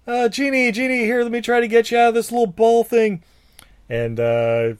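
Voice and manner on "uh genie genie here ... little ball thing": high squawky parrot; Iago voice. Retold or imitated. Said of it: "he's like".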